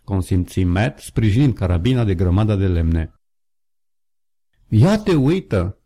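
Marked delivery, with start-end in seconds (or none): 4.7-5.8 pitched up and slow, drawn out in wonder; a narrator's lightly acted astonishment; surprised exclamation. A narrator's reading. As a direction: let the amazement stretch the words. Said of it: "exclamă el în clipa următoare".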